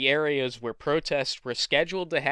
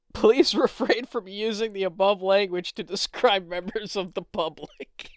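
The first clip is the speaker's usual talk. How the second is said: higher voice giving way to breathless laughter; suppressed laughter; 5 semitones higher than usual. Acted. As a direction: official reproof collapsing into a wheeze. Operator's reproof read while cracking up.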